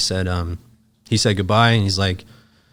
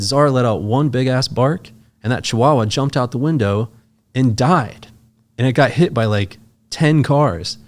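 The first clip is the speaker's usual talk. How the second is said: loud, raised, punched-out telling; imitating someone thrilled by their own story; retold gleeful storytelling; 5 semitones higher, 5 dB louder than usual. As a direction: build the gory anecdote with mock relish. Quotes the man gleefully telling his story.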